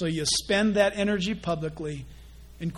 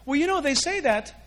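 mimicking a gossip; 5 semitones higher, 4 dB louder than usual.

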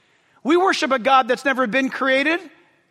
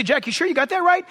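imitated sceptic, higher and quicker; doubting listener; 5 semitones higher, faster than usual. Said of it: "You say".

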